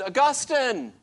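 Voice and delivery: high, loud call across the marketplace; crying out his name. Retold or imitated. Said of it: "she cried out to him and said".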